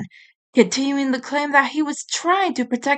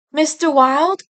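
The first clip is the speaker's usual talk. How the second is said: worried call; 6 semitones higher than usual. A narrator's reading. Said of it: "she called".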